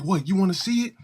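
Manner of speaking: high mock girl challenge; the fed-up tomboy dares the boys; challenging girl. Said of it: "She's like".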